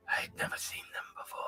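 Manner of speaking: fast, unvoiced corpse whisper. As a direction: whisper it as the dead woman. GM voices the corpse.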